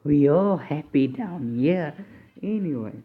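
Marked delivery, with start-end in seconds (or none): 0.0-1.9 slow, odd put-on voice. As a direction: draw it out in a silly voice. Repeats line in put-on voice.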